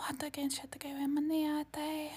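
chant-like channeled syllables; channeled light language. Acted. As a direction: channel an unknown tongue. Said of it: "Mantis activation coming through".

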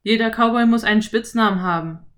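cowboy explaining nicknames. A narrator's reading. (Cowboy, laut und flott)

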